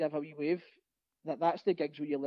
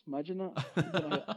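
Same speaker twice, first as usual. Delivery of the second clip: laughing; 3 dB quieter, much slower than usual. Real, not acted. Laughs at fans booing their own player.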